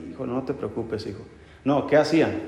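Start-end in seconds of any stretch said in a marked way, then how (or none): 0.1-1.2 quiet tender "Hijo, no te preocupes, hijo"; soft reassuring parent. Retold or imitated. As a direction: comfort him gently. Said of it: "Que nuestros padres dijeran".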